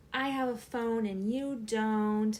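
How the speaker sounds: slow, drawn-out schoolyard taunt; mock taunting. Kid supposedly bullying a girl over a phone, mock taunting. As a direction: imitate a bragging kid rubbing it in. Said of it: "as if I was bullying this girl".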